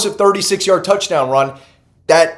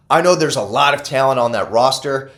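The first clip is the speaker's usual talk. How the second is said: a slip into a light British accent; accidental British accent. Real, not acted. Analyst slips into a light British accent on the roster line. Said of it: "I said that like a British person".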